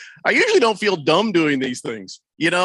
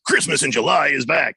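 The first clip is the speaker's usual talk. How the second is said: ad read demo; 3 semitones lower, 3 dB louder than usual. Shown as a demonstration. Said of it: "I think it was more even like".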